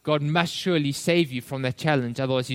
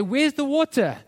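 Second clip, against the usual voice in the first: much higher mock complaint; grumbling, moaning; 10 semitones higher than usual. Preacher voices thirsty Israelites complaining to God, mock moaning. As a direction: imitate a moaning demand. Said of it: "they're grumbling and they're moaning".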